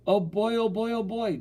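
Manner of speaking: very high, delighted whoop; excited yell. A narrator's reading. Girl hears of paper route, yelling excitedly. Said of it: "Terry yelled".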